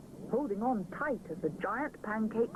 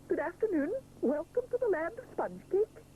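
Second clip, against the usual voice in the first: higher, cheerful chef welcoming guests; delighted greeting; 10 semitones higher than usual. Acted. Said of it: "he cries delightedly".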